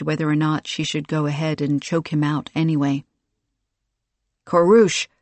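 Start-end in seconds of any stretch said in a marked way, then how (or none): 4.4-5.1 sharp, annoyed call of a name; irritated. Acted. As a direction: scold him by name. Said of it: "the Arbiter said with obvious irritation".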